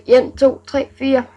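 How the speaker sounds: counting in broad rural Jutland dialect. Shown as a demonstration. Vlogger counts on a viewer's request, in rural Jutland dialect. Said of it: "Det er bondjysk".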